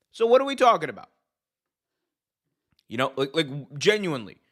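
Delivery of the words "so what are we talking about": high, fast, loud disbelief; exasperated outburst. Real, not acted. Pundit scoffing at a wrestling dad's complaint, exasperated and high. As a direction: throw it out like it's absurd.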